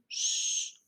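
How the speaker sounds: soft unvoiced shh; teacher shushing a noisy class. Shown as a demonstration. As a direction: hush the room like a teacher. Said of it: "a teacher ... and saying".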